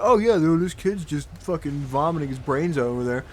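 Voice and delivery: loud bursts of mock indignation; mad, sarcastic. Pupil answering teacher who fussed over wording, sarcastically mad. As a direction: push the sarcastic apology out hard. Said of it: "I got so mad. I was like".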